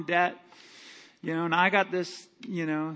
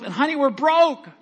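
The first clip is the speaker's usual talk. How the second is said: louder, higher, laughing we're broke; laughing despair; 8 semitones higher, 6 dB louder than usual. Pretend. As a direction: blurt the bad news half laughing. Farmer tells wife the loss.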